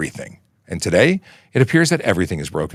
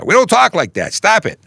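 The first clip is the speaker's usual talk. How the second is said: high-pitched mock protest; complaining New York friends; 12 semitones higher, 4 dB louder than usual. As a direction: imitate offended friends scolding, much higher voice. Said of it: "in trouble with my New York friends".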